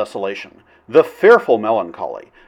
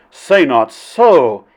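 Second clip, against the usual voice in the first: alarmed; 6 dB louder, much slower than usual. Acted. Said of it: "Flynn answered in alarm".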